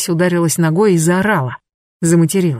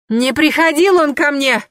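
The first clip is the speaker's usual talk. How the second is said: much higher shouted denial; shouting out; 8 semitones higher than usual. Acted. Vasilisa shouting her denial at Anna, much higher. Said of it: "выкрикнула Василиса".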